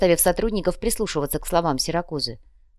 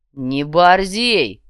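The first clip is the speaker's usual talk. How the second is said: slow, louder warning growl; a raised-voice warning, drawn out; slightly raised, slow threat; 7 dB louder, much slower than usual. Acted. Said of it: "Чемодан слегка повысил голос".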